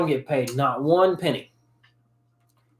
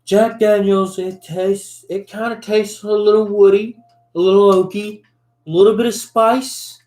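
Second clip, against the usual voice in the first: mock reviewer voice; 3 semitones higher than usual. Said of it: "and they're like".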